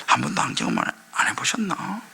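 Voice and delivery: soft unvoiced teasing question; whispered aside. Real, not acted. Pastor whispering a teasing question to listeners.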